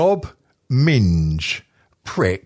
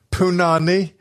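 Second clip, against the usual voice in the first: higher, accidental Jamaican accent; slipped-in accent; 4 semitones higher than usual. Real, not acted. Host reading strong swear words, Jamaican accent slipping in. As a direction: let a Jamaican accent slip in. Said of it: "that accent just slipped in there".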